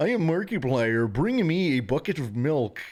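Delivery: high, loud, bizarre announcer voice.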